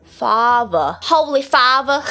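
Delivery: father said with a v for the th; th turned to v. Shown as a demonstration. Student copying the coach's Essex th, practised v in father. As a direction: copy it: "father" as "fava". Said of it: "turn into Fs and Vs".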